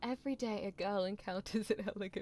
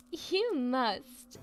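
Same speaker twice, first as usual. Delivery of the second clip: put-on loud, bright excited girl; 4 semitones higher, 9 dB louder than usual. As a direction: burst out with eager delight. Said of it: "her voice aglow with excitement".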